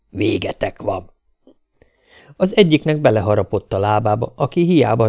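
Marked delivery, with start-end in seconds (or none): 0.1-1.1 lassú, sötét, baljós kutyahang; halálos fenyegetés. A narrator's reading. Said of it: "halálos hangokkal adta tudtára". (a kutya halállal fenyegeti a fetrengőket, lassan és baljósan)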